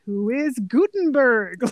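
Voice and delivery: slow, dopey quiz answer; mock dim-witted Jeopardy answer; dumb guess. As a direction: say it like a clueless guesser, slowly. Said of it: "just the way he says it".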